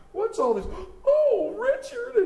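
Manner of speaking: mama gasping out "Richard" way up high; a mother's joyful shock at seeing her boy; surprised mother. Acted. Mama in the coffee ad finding her son home, surprised cry.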